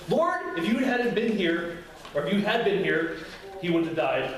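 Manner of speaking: high, sharp cry of Lord, then pressing, accusing; frustrated reproach. Shown as a demonstration. Martha confronting Jesus, reproachful and frustrated. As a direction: blame him for coming too late. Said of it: "there's two options".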